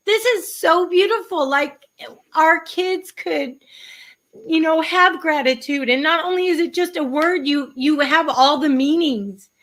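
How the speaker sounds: really welling up while praising something; emotional, teary-eyed. Real, not acted. Guest telling the author what the book means, teary-eyed. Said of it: "I don't know why I'm emotional".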